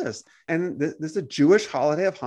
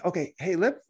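soft, higher-pitched friendly offer; gentle; 4 semitones higher, 3 dB quieter than usual. Acted. Believer offering a stranger the Christian story, gently. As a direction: ask it softly, without confrontation. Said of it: "let's say it in a gentle manner".

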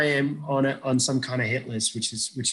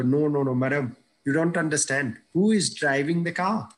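imitating Indian accent. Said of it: "I had an Indian accent at the time".

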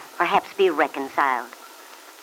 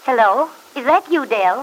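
higher, warmly welcoming phone greeting; warm, friendly; 6 semitones higher than usual. Acted. Aunt answering Del's telephone call, warm and friendly. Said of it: "she hears Aunt Mary's warm, friendly voice".

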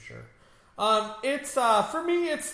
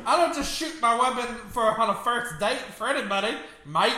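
mock Australian Spider-Man; 5 semitones higher than usual. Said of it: "You're making him sound Australian".

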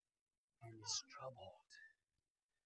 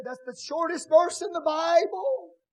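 raised, higher quote of a bystander; imitating a know-it-all; 14 semitones higher, 18 dB louder, slower than usual. Preacher lightly voicing somebody's remark, mild mock. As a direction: toss off the quip like a proud know-it-all. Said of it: "And somebody said".

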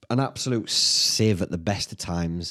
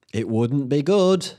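dragged slowly, a bit higher; wry slow repeat of the verdict; slow drawn-out repeat; 5 semitones higher, 3 dB louder, slower than usual. Real, not acted. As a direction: stretch it out with mock gravity.

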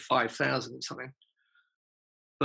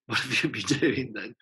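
laughing. Retold or imitated. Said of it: "she'd kind of say".

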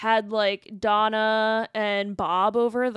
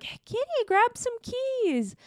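high, breathy-free sultry come-on; flirty neighbor voice; 14 semitones higher than usual. Retold or imitated. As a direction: play the flirty hot mom. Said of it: "she's like".

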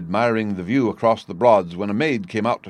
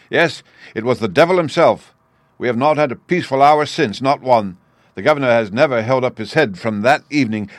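agitated outpouring, somewhat raised voice; bitter, forceful lament for a father; distraught young friend; 4 dB louder than usual. Acted. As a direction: pour out the grievance with dramatic force.

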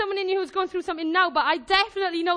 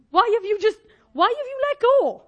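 raised, emphatic appeal; acted incredulous question; 4 semitones higher, 4 dB louder than usual. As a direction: ask it in pained disbelief, pitch climbing. Jesus questioning the one who fell.

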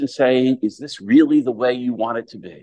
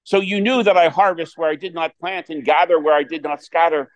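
gospel reading; 2 semitones higher than usual. Acted. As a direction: proclaim it from the pulpit.

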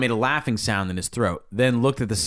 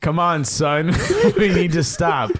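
laughing while reading; 4 semitones higher, 4 dB louder than usual. Real, not acted. Reading the line through laughter.

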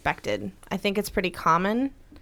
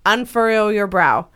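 lightly voiced mother, louder calm instruction; mom coaching in labor; 2 semitones higher, 8 dB louder, slower than usual. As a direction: give a labouring daughter gentle orders. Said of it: "she was giving her very specific instructions".

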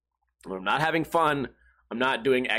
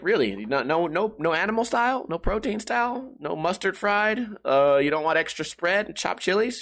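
mock disbelief; 6 semitones higher than usual. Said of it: "I was like".

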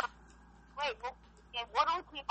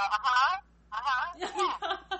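absent-minded uh-huh; 4 semitones higher, much slower than usual. Shown as a demonstration. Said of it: "that I just go".

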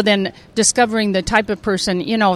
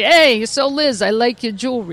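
mock casual; 4 semitones higher than usual. Mock casual line to Taylor.

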